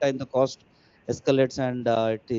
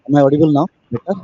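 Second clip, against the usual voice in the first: louder; 10 dB louder, much faster than usual. Real, not acted. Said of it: "Clear, sir".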